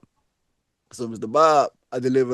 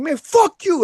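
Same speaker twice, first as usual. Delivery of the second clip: retold angry curse; 14 semitones higher, slower than usual. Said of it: "Like, I was mad".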